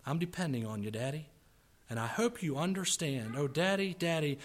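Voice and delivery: earnest plea, easing down after the climax; heartfelt poem reading. Acted. Preacher reads a child depending on his daddy, heartfelt. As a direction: settle back into a tender, pleading recitation.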